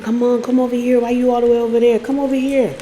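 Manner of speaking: retold wheedling; coaxing. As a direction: coax someone closer, mock pleading. Imitating his coaxing her over.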